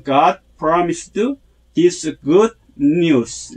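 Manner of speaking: God promised this good news, slow, accents on the key words; accented key words. Shown as a demonstration. Teacher modelling accents for learners, slow stressed phrase. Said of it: "이렇게 액센트를 넣어서".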